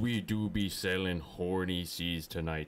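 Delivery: pirate voice. Acted. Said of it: "I can't do the pirate, uh, voice anymore".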